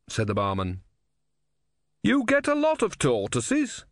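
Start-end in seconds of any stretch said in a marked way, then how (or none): 2.0-3.9 very high, slow, raised voice; loudly. A narrator's reading. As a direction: talk over a racket, drawn out and high. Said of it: "said Brother loudly".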